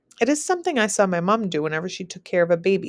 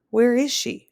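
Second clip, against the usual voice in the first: demanding; 5 semitones higher, slower than usual. Acted. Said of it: "she demands".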